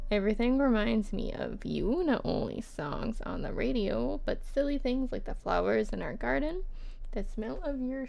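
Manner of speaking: measured, expressive reading; love letter read-aloud. Acted. Writer to Anne about missing her, lightly performed letter reading.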